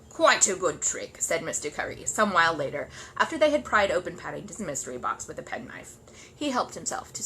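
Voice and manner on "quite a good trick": slow, loud smug approval; grudging praise with biscuits. Acted. Mr Curry smug.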